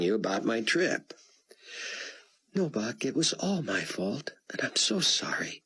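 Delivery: put-on a tearful young woman owning up; Chloe. A narrator's reading. Chloe confesses to Buck, high and tearful.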